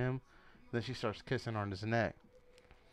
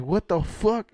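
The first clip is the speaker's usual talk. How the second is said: loud, high-pitched outraged retelling; mock-furious exclamation; imitated pissed-off outburst; 7 semitones higher, 9 dB louder, slower than usual. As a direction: act out his angry disbelief, loudly. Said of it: "he got pissed".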